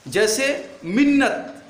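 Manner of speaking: मिन्नत said slowly with a short, quick मि; slow mock-correct मिन्नत; short vowel demo. Shown as a demonstration. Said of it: "मिन्नत तो नहीं पढ़ा जाता है".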